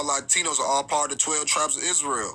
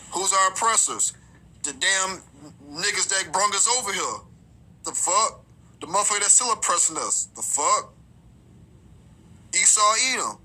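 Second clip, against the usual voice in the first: heated, higher-pitched street preacher; indignant preaching; 4 semitones higher than usual. Real, not acted. Preacher naming the oppressors to the flock, indignant. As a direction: call out the oppressors with rising indignation.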